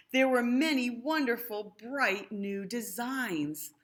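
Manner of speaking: put-on lively read-aloud to children; sing-song rhyming storytelling; storybook reading. A narrator's reading. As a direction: read it like a bedtime picture book. Rhyming picture book read aloud.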